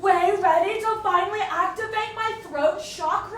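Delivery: mock Hispanic accent. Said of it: "speak with a certain accent".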